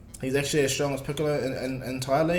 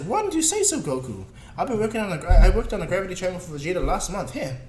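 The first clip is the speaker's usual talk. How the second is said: lightly exasperated, higher and lively; mock exasperation; 4 semitones higher, 3 dB louder than usual. Bulma answers Goku about the gravity chamber, mildly exasperated. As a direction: act out an exasperated retort.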